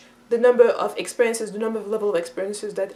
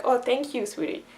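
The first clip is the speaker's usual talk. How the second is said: softly voiced, affectionate thank-you; tender thanks; 6 dB quieter than usual. Adult thanking a little girl for water, tenderly. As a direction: thank a small child gently, trailing softer.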